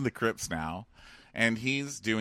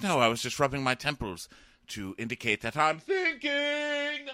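mock protest; 6 semitones higher than usual. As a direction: play it as a defensive half-shout. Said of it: "And he's like".

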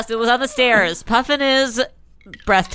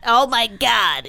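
Serafina voice; 3 semitones higher, much slower than usual. Retold or imitated. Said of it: "that's her voice".

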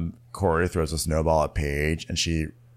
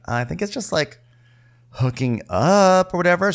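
mock dudes voice; 11 semitones higher, 5 dB louder than usual. Imitating guys, high.

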